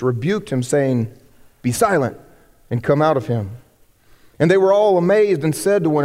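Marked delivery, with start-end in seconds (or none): 1.6-3.5 low, commanding rebuke; stern rebuke. Acted. Jesus rebuking the demon, low and stern. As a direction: order the demon out.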